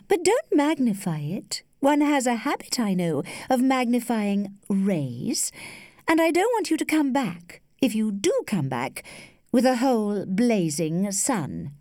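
a hint of an indulgent, teasing woman; teasing lady. Lady gently warns her young suitor off, lightly teasing.

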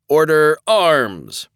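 high, slow drill command; shouted command. Acted. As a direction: call it out to the formation. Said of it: "James commanded".

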